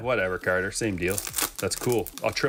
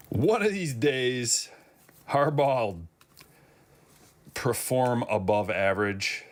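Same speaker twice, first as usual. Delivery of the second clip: slow, higher laughing drawl; 4 semitones higher, slower than usual. Real, not acted. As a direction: laugh through a sarcastic jab. Laughing sarcasm about Harbaugh.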